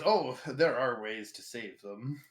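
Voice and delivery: slow, lightly voiced creepy old man; a hint of a sinister old man. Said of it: "a creepy old man voice".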